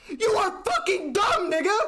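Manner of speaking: high, slowed, laughing through it; laughing in disbelief. Real, not acted. Streamer to his chat, laughing in exasperation. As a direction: laugh it out at how dumb this is.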